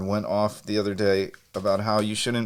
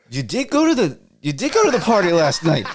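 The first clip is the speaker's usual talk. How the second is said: sing-song blend of Pittsburgh and Irish accents; 9 semitones higher, 6 dB louder than usual. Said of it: "you sounded like half Yinzer, half Irish folk right there".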